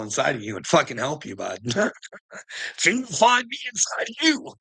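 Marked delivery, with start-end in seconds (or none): 2.8-4.5 laughing shout. Real, not acted.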